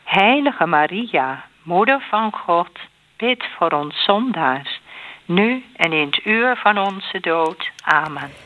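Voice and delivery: measured response with set pauses; prayer recitation. Real, not acted. Answering the Hail Mary with a plea to Maria, measured prayer recitation. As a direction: answer in an even rosary cadence.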